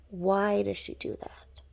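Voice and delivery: slow, emphatic repeat of the question; drawn-out bafflement. Real, not acted. Wondering why she does that, drawn-out bafflement. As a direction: stretch the words out in disbelief.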